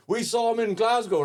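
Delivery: hammed-up drunk woman pleading; insistent drunk fan. Drunk fan telling the comic she saw him, high and insistent. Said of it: "She was like".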